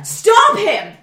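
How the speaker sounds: high, loud plea to a stranger; shouted call. Retold or imitated. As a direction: call out across the alley. Calling to stranger.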